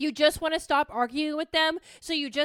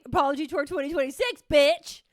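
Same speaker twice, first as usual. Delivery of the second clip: hype announcer; 5 dB louder than usual. Pretend. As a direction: announce it like a concert tour. Hyping her apology tour.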